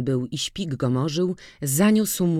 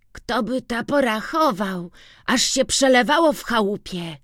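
put-on boy's eager answer; 8 semitones higher than usual. A narrator's reading.

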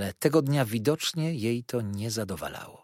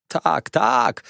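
wołanie z łkaniem; 7 dB louder than usual. Acted. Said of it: "wołała, łkając".

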